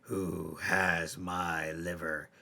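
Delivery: slow, drawn-out eerie question; right beside her, slow and menacing; ghostly voice close by. Acted. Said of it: "Now the voice was right next to her".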